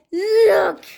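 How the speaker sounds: high, loud exclamation; urgent call. A narrator's reading. Cheeseball pointing upward at the danger, urgent call.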